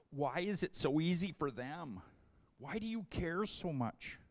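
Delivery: lightly pouty whine. Retold or imitated. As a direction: complain like a sulky kid. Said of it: "pouty voice".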